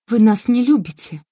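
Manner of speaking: ordinary delivery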